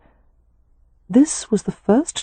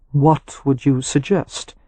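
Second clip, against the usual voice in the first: dry innuendo; 3 semitones lower, slower than usual. A narrator's reading. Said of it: "a dry, perfectly timed pause".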